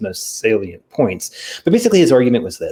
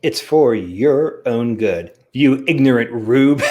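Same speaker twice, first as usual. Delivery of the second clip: mock condescension; slower than usual. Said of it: "to quote someone else".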